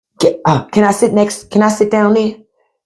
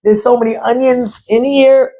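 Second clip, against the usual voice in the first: mock crying; 2 semitones higher than usual. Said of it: "you're gonna be crying in there".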